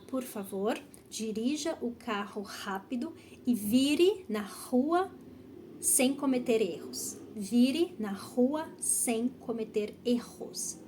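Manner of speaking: slow practice model, "rua" and "erros" with R as breathed h; drawn-out teacher model for repeating; soft R. Shown as a demonstration. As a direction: say "rápido", "rua", "erros" with an airy h for R. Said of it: "Ele é um som suave".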